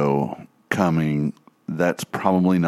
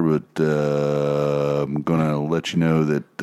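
lightly voiced monotone airline captain; a hint of a calm cockpit announcement; pilot voice. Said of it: "your pilot voice is spot on".

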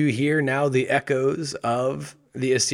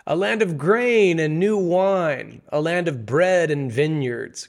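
tempting emissary; 4 semitones higher, 4 dB louder, slower than usual. Acted.

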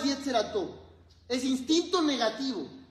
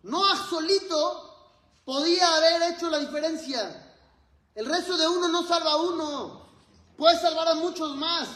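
emphatic insistence; 4 semitones higher than usual. Real, not acted. Rabbi correcting the listeners, raised and emphatic. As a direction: drive it home to the congregation. Preacher insists on one's prayer.

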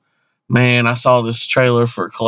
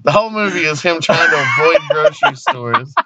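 laughing. Real, not acted. Laughing repeat of joke.

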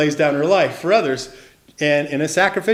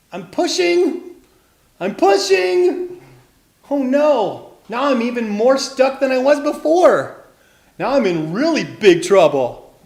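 high, loud cartoon distress; hammed-up storybook panic; straining panic; 8 semitones higher, 7 dB louder than usual. A narrator's reading. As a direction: strain on drawn-out words, then wail in alarm. Tilly stuck, straining in net.

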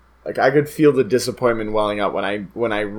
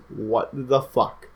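slow, drawn-out baffled reaction; imitated disbelief; slower than usual. Hero seeing his foot reattach, slow mock disbelief. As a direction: spread the words out in mock disbelief.

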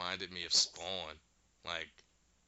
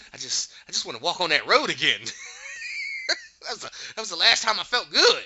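crying addict whine; 8 semitones higher, 8 dB louder, faster than usual. Retold or imitated. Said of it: "she gonna be, like, scratching her neck".

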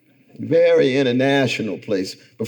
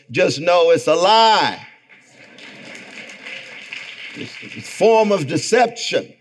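preaching; 6 semitones higher, 3 dB louder than usual. Real, not acted. Preaching with rising force.

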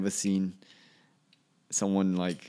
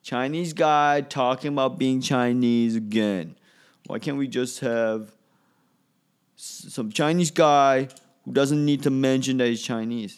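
drawn-out, weary complaining, slower and louder; exasperated viewer; 5 semitones higher, 7 dB louder, slower than usual. Retold or imitated. Annoyed TV viewer groaning at a Chinese comedian, slow exasperated whine. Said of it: "It's like".

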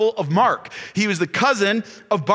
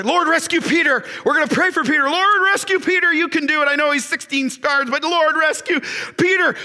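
fervent praying church; 4 semitones higher than usual. Acted. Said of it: "at the start of the".

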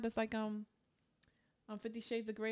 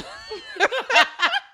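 big high burst of laughter; laughing at herself, louder and higher; 15 dB louder than usual. Real, not acted. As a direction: crack up loudly. Laughing at her own slip.

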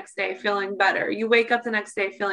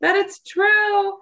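laughing; 7 semitones higher than usual. Real, not acted. Pregnancy sickness, half laughing.

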